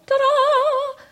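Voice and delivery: high bright ta-da fanfare. Pretend. Showing the congregation how bubbly she felt, a high ta-da. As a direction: present yourself like a magic trick. Showing her new energy.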